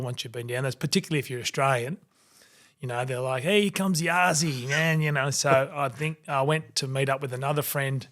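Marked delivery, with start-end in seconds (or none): 3.4-5.0 higher, hailing voice of club staff; mock cheery shout-out; imitated welcome. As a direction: lightly act out greeting a favourite regular. Imitates club staff greeting him.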